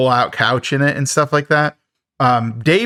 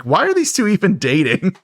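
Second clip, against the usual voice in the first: higher-pitched incredulous question; mock bafflement; 6 semitones higher than usual. Recapper baffled by a bickering couple, mock incredulous. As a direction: ask it in playful exasperation.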